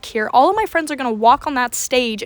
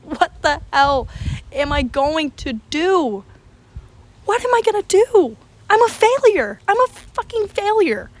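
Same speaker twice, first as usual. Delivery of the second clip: acted crying panic; 6 semitones higher than usual. Student alone in bathroom stall, hammed-up tearful panic. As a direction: wail it like a hammed-up breakdown. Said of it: "I'm crying in the bathroom stall".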